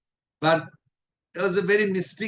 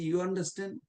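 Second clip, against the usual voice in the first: softer, hushed question; a mild, half-voiced whisper, leaning in; retold whisper; 6 dB quieter than usual. Asking Maharaj on the quiet during the talk, softly. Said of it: "whispered to Maharaj".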